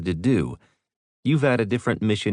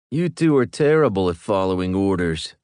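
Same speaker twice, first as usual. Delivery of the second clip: deadpan; 4 dB louder than usual. Acted. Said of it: "Heckler deadpanned".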